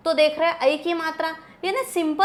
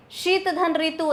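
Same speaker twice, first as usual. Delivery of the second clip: slow dictation; slower than usual. Shown as a demonstration. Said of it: "देखो ये शीत धन ऋतु".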